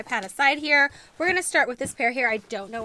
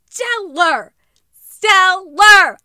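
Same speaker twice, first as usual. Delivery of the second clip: higher, much louder gush; excited cry; 6 semitones higher, 13 dB louder, much slower than usual. Real, not acted. Praising a new shoe to viewers, excited cry. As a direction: cry it out with joy.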